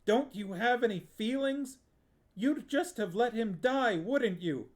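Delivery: put-on a boy pouring out years of resentment at his aunt; furious tirade. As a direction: let the anger run away with you.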